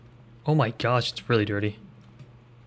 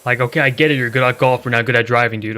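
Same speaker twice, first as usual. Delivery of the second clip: raised, exasperated complaint; louder exasperated rant; 6 dB louder than usual. Real, not acted. Streamer ranting about the boastful mayor, louder. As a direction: vent loudly at the show-off.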